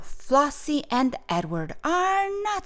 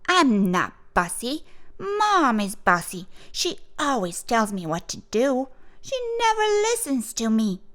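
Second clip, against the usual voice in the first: put-on complaining child, getting higher and faster toward the end; indignant bossy girl; 5 semitones higher than usual. Girl sent to her room complaining, indignant. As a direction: protest in a higher, rising voice.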